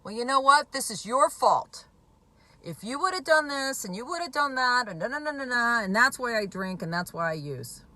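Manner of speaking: imitating an addict turning it on the spouse; blaming voice. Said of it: "they switch into blame".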